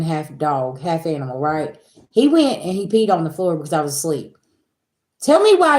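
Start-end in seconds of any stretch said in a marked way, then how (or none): 5.2-5.8 high, loud disbelief; loud astonished exclamation; amazed exclaim. Real, not acted. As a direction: cry out in amazement. Amazed at the dog.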